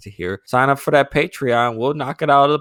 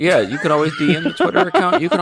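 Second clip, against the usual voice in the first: tipsy; 3 semitones higher, faster than usual. Real, not acted. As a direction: slur it a bit after a few beers. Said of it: "I'm a little drunk".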